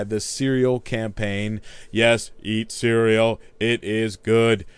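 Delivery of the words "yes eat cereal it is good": slow, stiff robot voice; toy robot voice. Acted. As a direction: deliver it like a robot. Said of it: "Yes, I am a robot for the ad industry".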